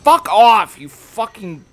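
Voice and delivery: loud curse fading to a grumble; swearing tirade. Real, not acted. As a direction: snap then trail off muttering. Swearing at game.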